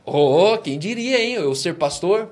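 a hint of smug self-satisfaction, drawn out slowly; puffed-up pride. Flattered churchgoer to the preacher, lightly smug and slow. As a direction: play the proud one flattered at being called pastor.

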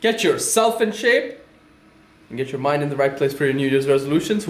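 upbeat sales pitch announcer; infomercial voice. Acted. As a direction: sell it like a TV infomercial. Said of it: "I sounded like an infomercial".

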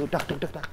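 soft staccato "dak" hits; quiet little fight sound effects; imitated punch sounds. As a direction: mimic quick punches under your breath. Imitates bare-knuckle punches.

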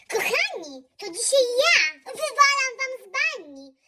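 usual speaking voice

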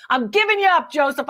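laughing while teasing; laughing tease. Real, not acted. Host laughs while teasing friend Joseph on air. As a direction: giggle through the words.

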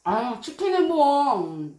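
chewing while talking; talking around a mouthful of food; mouth full. Real, not acted. Seen 3: Cheeks bulge, lips pursed, chewing chicken bitten just before.

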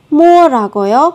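startled what did you say; incredulous what. Shown as a demonstration. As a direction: ask back as if you can't believe it. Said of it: "chúng ta không nghe rõ".

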